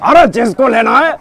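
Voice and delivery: lightly voiced film villain; Bad Man, hawking vegetables; Gulshan Grover impression. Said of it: "आ जाते हैं गुलशन ग्रोवर जी".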